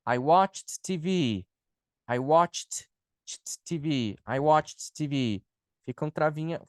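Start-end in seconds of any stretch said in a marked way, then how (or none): 0.1-5.4 slow "watched" with its T kept apart from "T V"; careful tongue-twister. Shown as a demonstration. Teacher practising a tongue-twister, slow careful "watched". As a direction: work slowly through the CH-T-T of "watched T V". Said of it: "um trava-línguazinho".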